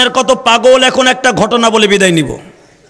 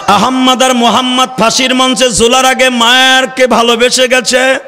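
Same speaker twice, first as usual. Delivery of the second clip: waz preaching. Real, not acted. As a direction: exhort the crowd, stretching the line endings. Preaches to a crowd. (টেনে টেনে সুর করে ওয়াজ)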